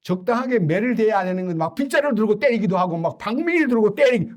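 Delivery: a hint of a wounded kid; lightly voiced child listing grievances; hurt child. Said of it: "그러면 그 아이가요".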